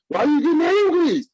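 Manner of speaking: high, mocking whine of an accuser. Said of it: "Tim was like".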